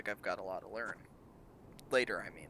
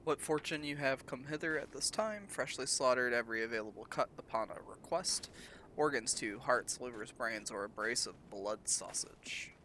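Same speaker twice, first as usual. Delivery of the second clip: put-on Highland accent. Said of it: "I don't know what this accent is. It's like Highland".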